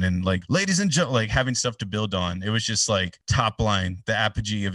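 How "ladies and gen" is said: high-pitched announcer opening, cut short; announcer call. Retold or imitated. Announcer opening the show for the crowd, mock announcer call. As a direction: start addressing the whole crowd.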